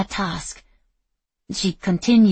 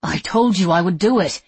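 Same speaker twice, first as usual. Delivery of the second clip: outraged; 6 dB louder than usual. Acted. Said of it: "outrage burning through".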